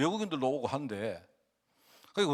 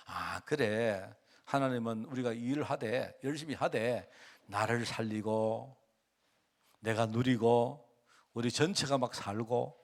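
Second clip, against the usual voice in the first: slow, softer reflective murmur to oneself; calm inner thought; 3 semitones lower, 3 dB quieter, slower than usual. Retold or imitated. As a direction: let it settle slowly like a quiet realization. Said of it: "그냥 이 마음속에". (천천히 조용히 되새기듯)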